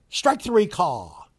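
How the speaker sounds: mocking A-Rod by calling his strikeout like an announcer; mock play-by-play call. Host mocks A-Rod with a slow announcer strikeout call. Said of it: "if you're doing play-by-play".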